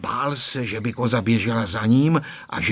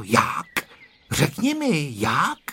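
coaxing little boy, lightly voiced; pleading; 4 semitones higher, slower than usual. A narrator's reading. Boy begging grandpa to tell him how, pleading. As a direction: beg to be let in on it. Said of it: "žadonil Honzík".

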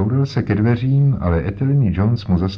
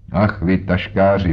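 exclamation. Acted. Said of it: "vykřikl Jones".

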